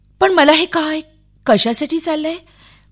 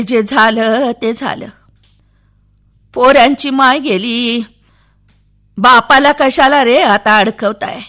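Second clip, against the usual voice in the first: put-on old villager; 4 dB louder than usual. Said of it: "तो म्हणाला".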